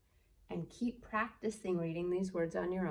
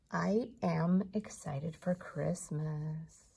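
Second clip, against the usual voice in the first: slow teaching read; slower than usual. Shown as a demonstration. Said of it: "model sentence read slowly".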